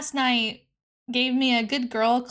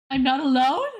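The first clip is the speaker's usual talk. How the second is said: rising, louder question; surprised question; 4 dB louder than usual. Real, not acted. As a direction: ask it back in surprise. Reacting to game text.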